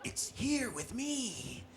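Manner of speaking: slow, soft spooky ghost; grim reaper voice. Pretend. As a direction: draw out the doom slowly. Playing ghost.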